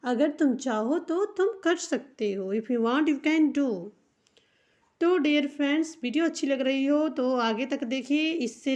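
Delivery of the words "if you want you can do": "if you want you can do" said at a slow pace; slow dictation. Shown as a demonstration. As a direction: repeat it slowly once more. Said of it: "देखिए लिख के दिखा देती हूँ".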